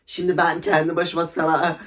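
normal talking voice

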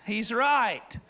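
slow, stunned admission; a touch of awed surrender; slow realization. Retold or imitated. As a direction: let it dawn on you slowly. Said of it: "I went".

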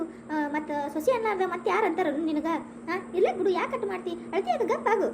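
scold-and-soothe a crying friend for show; animated fussing meant to be overheard; showy consoling. Pretend. Staged consoling for son to overhear.

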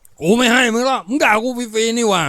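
high-pitched quarrelling man; angry refusal. Acted. (เถียงเสียงสูงอย่างฉุนเฉียว)

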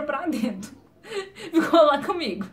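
real laughter breaking into the telling; amused, laughing through the words. Real, not acted. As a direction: laugh while finishing the anecdote. Laughs at her own anecdote.

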